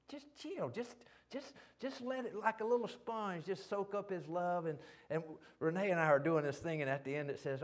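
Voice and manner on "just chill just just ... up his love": soothing coax. Real, not acted. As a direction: gently coax them to let go and soak it in. Soothing the congregation to relax.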